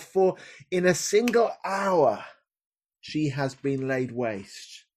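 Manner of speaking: slow, falling mourn; grieving lament. Acted. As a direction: let the grief fade out slowly. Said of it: "crying aloud".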